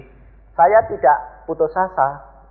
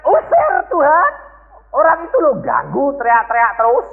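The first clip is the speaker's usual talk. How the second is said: urgent demand; 10 semitones higher than usual. Retold or imitated. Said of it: "Murid-muridnya mengatakan".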